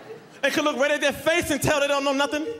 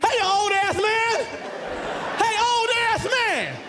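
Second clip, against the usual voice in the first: mad yell; 6 semitones higher, slower than usual. Retold or imitated. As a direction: bellow at him across the street, fed up. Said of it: "I'm mad as hell".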